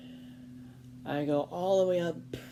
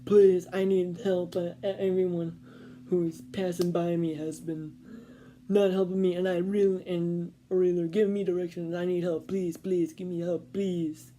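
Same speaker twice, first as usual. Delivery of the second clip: put-on raised, pleading voice of the lost old man; pleading old Italian man; 2 semitones higher, 5 dB louder than usual. Narrator imitating the old man begging passers-by, loud and pleading. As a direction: beg loudly for help like the stranger. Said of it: "He's like".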